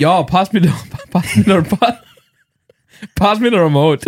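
badly faked Scottish; unconvincing Scottish accent, breaking into giggles. Shown as a demonstration. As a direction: attempt Scottish while cracking up. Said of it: "not even slightly Scottish".

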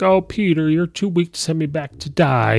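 high, sneering villain voice, starting well up; lightly voiced cackling villain taunting the hero; a hint of a gloating Goblin mocking Peter; taunting Green Goblin.

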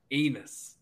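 ANUS drawn out as its own punchline, through laughter; "ain't us" run together as ANUS, amused; punning emphasis. Real, not acted. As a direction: stress the word ANUS for the joke. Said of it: "Emphasis on the anus".

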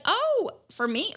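high, slow mock surprise; surprised. Recipient of puppy, surprised. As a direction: gasp it out like a shocked gift. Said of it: "she seemed so surprised".

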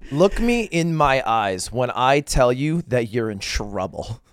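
slow, hushed dead-serious warning; grave warning. Acted. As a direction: stare them down and warn slowly. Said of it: "you're so serious".

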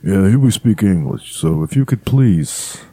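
drawn-out, mock-courteous request; mock polite objection. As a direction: play a slow-talking local politely objecting. Second take on the affronted local.

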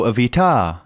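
"Evita" with the stress shifted to the end; teasing misplaced stress on "Evita"; wrong-syllable stress. Shown as a demonstration. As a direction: mispronounce "Evita" on purpose as evi-TA. Mock wrong stress on title.

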